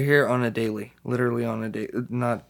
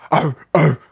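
censored mumble; 3 semitones higher, 8 dB louder than usual. Retold or imitated. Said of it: "All you hear is".

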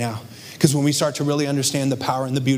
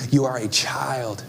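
hushed whisper, slowed right down; slower than usual. Real, not acted. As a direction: breathe it like a secret. Tender point to elderly listeners.

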